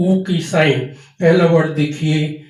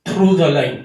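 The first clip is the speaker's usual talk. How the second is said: slow emphasis; much slower than usual. Shown as a demonstration. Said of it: "above the line, on the line और third place".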